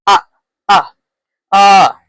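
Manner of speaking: "Ah, ah, ah" like the start of octopus; short O sound. Shown as a demonstration. Teacher says think octopus, short O sound. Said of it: "think it's octopus".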